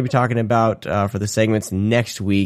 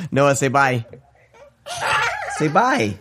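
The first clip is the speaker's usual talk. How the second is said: coaxing laughingly; 9 semitones higher, slower than usual. Real, not acted. Coaxing son to say bye.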